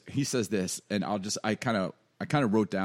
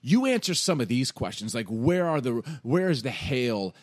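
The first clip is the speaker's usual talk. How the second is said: raised, emphatic acted challenge; God; 2 semitones higher, 4 dB louder, slower than usual. God going off on Job, emphatic mock interrogation. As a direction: slowly press him for answers. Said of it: "God just goes off on him".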